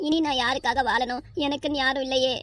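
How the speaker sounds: understated hopeless lament to a parent; worried, despairing. Acted. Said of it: "ஏன் இப்படி கவலைப்பட்டு பேசுற?". (மனமுடைந்து மெல்லப் புலம்புதல்)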